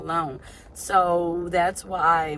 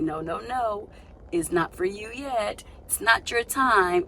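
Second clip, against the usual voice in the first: higher-pitched voice of refusal; mock denial; 4 semitones higher than usual. Life reminding her it is not for her yet, mock denial. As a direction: deny it in a higher voice. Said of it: "it reminds you, like".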